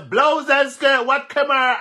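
high, slow, laughing cry of surprise; hammed-up shocked yelp in a retold brawl; mock shocked exclamation; mock outrage exclamation. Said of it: "and me say".

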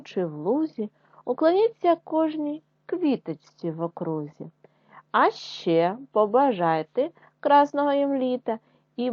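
put-on a lightly lilting reading of a children's poem; poem recital. Teacher reciting a poem to first graders, lilting. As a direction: recite it gently for little pupils.

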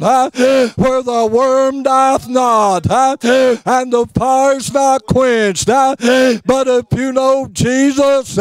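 chanted preacher cadence with breath catches; fiery preaching. Real, not acted. Preacher driving the congregation home, chanting. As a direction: preach it out, tuning each line.

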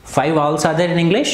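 slow, clear sentence for the class; slow dictation. Shown as a demonstration. Teacher dictates the answer slowly to children. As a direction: spell it out slowly for students. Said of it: "teacher models sentence slowly".

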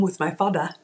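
lightly imitated Ghanaian accent; a touch of African accent. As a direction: slip into a parent's African accent. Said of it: "My parents have very strong African accents".

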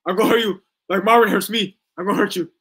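loud, mocking threat of a hurt voice; mock menacing boyfriend. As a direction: ham up a thuggish threat, loud. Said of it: "it sounds like he's talking about".

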